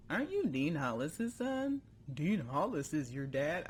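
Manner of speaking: odd character voice. Acted. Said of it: "I just started talking like that".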